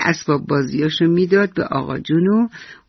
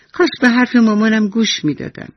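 put-on child's regret; 6 semitones higher than usual. Imagined child regretting aloud.

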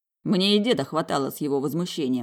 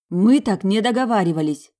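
louder outraged protest; indignant; 5 semitones higher, 8 dB louder than usual. A narrator's reading. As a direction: attack him with it, much louder. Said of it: "Напала на меня Надя".

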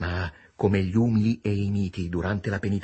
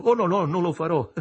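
high, amused denial; laughing protest; 8 semitones higher than usual. A narrator's reading. Tipsy man reassuring a policeman, laughing protest. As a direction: protest higher, breaking into a chuckle.

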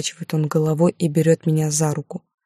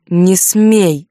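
sharp angry command, louder; 6 dB louder than usual. Acted. Alexander forbids her, angry sharp command. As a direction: snap it at her furiously. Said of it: "разозлился он".

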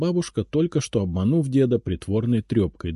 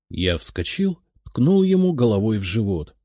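usual speaking voice

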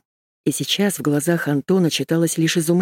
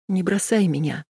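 pitiful plea; 2 semitones higher than usual. Acted. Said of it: "жалко сказала Машка".

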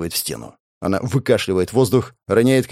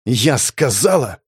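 growled; slower than usual. Acted. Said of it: "прорычала она".

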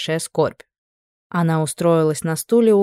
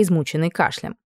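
usual speaking voice

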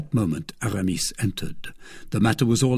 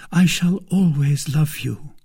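high, slow declaration of love; devoted maid; 5 semitones higher, 4 dB louder, slower than usual. Acted. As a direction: vow it slowly in a raised maid's voice. Voices Kitty declaring love.

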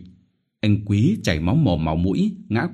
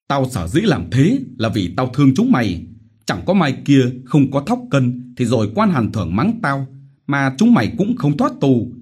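self-righteous harangue, higher and louder; blustering village chief; 6 semitones higher, 4 dB louder than usual. Acted. Chief justifying the beatings to villagers, blustering harangue. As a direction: lecture them with false concern.

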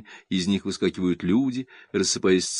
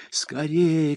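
shouted; 7 semitones higher than usual. A narrator's reading. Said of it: "кричит Августа".

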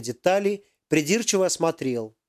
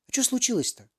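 higher, lightly voiced concerned professor; caring; 9 semitones higher than usual. A narrator's reading. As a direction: ask gently, like a worried uncle. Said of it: "заботливо поинтересовался профессор".

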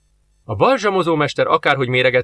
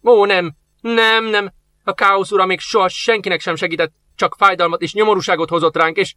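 put-on old master pleading against the chaos god; alarmed protest; 7 semitones higher than usual.

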